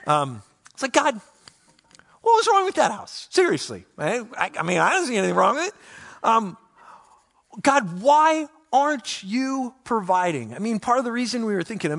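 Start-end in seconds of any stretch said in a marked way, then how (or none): 0.9-10.5 exasperated, pleading complaint pitched high; rising frustrated plea to God; complaining to God. Retold or imitated. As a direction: whine at God like he let you down. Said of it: "really complaining to God".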